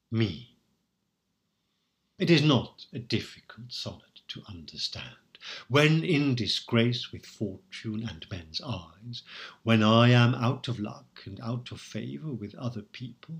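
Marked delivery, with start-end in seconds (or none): 5.7-9.2 slow, measured verse reading; poem recital. Shown as a demonstration. Lecturer reading a sonnet line to students, slow and measured.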